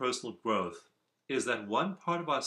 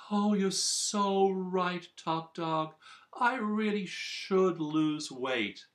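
high, slow, simpering agreement; fawning underdog; 7 semitones higher, slower than usual. Acted. Underdog submitting to top dog, high slow fawning voice. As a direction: grovel up high like a dog baring its belly. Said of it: "exposes its belly and says".

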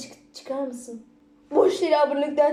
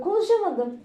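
giggly admission; 6 semitones higher, 4 dB quieter than usual. Real, not acted. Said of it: "Konuşamadım biliyor musun".

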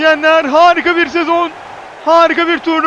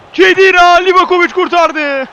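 screaming football commentator; 2 semitones higher, 4 dB louder than usual. Real, not acted. Penalty kick taken.

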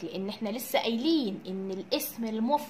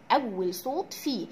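slow stress; 2 semitones lower, slower than usual. Shown as a demonstration. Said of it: "teacher repeats the key phrase".

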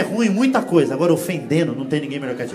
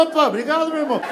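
mock grateful; 6 semitones higher, faster than usual.

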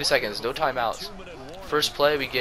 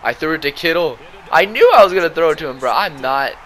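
exasperated yell; 6 semitones higher, 10 dB louder than usual. Real, not acted. Groans at own interception.

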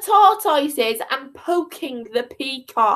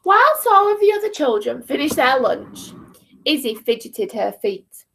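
put-on children's story narration. A narrator's reading.

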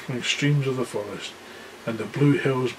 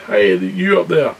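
big roaring call upward; roared; 6 semitones higher, 5 dB louder than usual. Acted. Aslan roaring up at the giant on the wall. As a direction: bellow it up at the giant. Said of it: "he roared".

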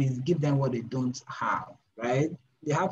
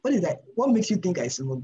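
higher, louder, affronted inner voice; indignant surprise; 4 semitones higher, 4 dB louder than usual. Retold or imitated. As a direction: bristle at the suggestion. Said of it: "In my head, I'm like".

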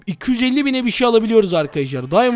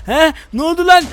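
startled yelp; 7 semitones higher, 4 dB louder than usual. Real, not acted. Sudden explosion surprises him.

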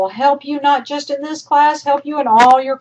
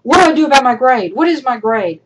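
lightly mocked student, quick and louder at first; imitating worried students; 3 semitones higher, 5 dB louder than usual. Teacher mimicking end-of-semester students, lightly mocked worry. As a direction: rush it like a student mildly panicking. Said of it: "students at the end of the semester always go".

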